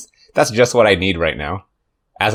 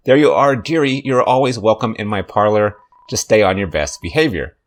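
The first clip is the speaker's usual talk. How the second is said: spider lady voice. Acted. Reading Muffet's dialogue in voice.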